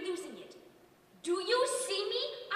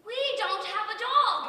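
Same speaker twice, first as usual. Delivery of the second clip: exasperated outburst; 6 semitones higher, 8 dB louder than usual. Acted. Exasperated telling Kenny.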